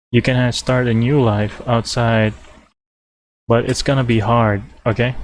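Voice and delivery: talking between sips of coffee; drinking coffee. Real, not acted. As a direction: speak with a mouthful of coffee. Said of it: "Sorry, I'm drinking coffee".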